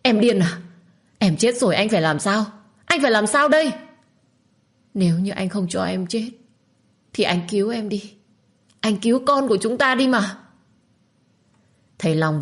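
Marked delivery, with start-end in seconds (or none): 0.0-3.7 alarmed husband, louder and higher; frightened cry after grabbing the knife; panicked. Acted. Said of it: "giọng của anh hốt hoảng". 4.9-10.4 higher, climbing to a cry; a hint of desperate sobbing; tearful pleading young mother. Minh pleads again.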